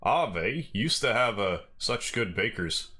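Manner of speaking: slow, thick Canadian accent; dialed-up Canadian accent. Shown as a demonstration. Streamer reading a game line, dialing up a Canadian accent. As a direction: lean hard into a Canadian accent, slowly. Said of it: "really dial up the Canadian accent".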